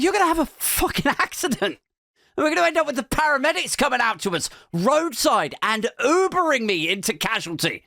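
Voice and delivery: high-pitched retold telling-off; mock panicked scolding. Girlfriend scolding reckless driver, exasperated. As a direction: imitate an alarmed passenger's scolding.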